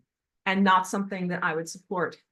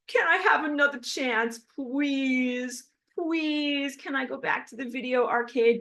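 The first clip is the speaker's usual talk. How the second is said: high, pleading mock beggar voice; a hammed-up beg for one more chance; pleading evil beings; 6 semitones higher than usual. Spirit mocking evil beings begging for another chance, high pleading whine. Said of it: "And they're like this".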